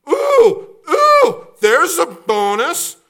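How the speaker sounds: squealing high with fake glee over garlic; mock delight. Preacher mocking Israelites, squealing over garlic. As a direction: gush like a thrilled whiner.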